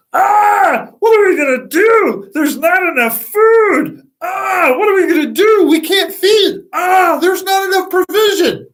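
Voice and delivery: high, loud wailing panic; hammed-up frantic cry of worry; panicked disciples. Disciples panicking over too little food, frantic high cries.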